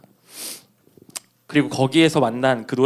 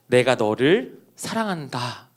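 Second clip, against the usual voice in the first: tender voice of God; 4 semitones lower, 3 dB quieter, slower than usual. Retold or imitated. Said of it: "라는 그 이야기를 한 번만 듣게 해주세요".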